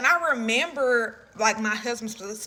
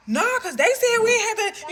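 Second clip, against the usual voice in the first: laughing; 11 semitones higher, 5 dB louder than usual. Retold or imitated. Retelling nervous explanation to officer.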